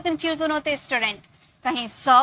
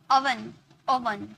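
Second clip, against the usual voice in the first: ओवन said slowly and clearly; drawn-out ओवन for students to copy; slow demo; 2 semitones lower, 5 dB quieter, much slower than usual. Shown as a demonstration. Teacher modelling ओवन for students, slow. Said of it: "slow demo of word".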